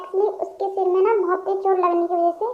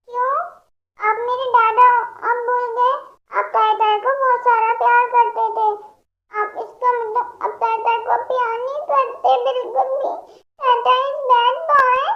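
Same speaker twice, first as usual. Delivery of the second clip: put-on higher, whiny baby talk, slowing at the end; a little girl pouting that daddy forgot her; sulky toddler; 4 semitones higher than usual. Childlike patient sulks at dad.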